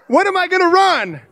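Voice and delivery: what am I gonna run, said incredulous; mock exasperated. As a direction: throw up your hands in disbelief. Exasperated retelling.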